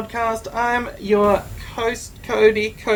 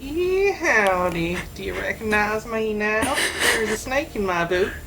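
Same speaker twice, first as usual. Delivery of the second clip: bad American accent. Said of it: "trying to do an American accent".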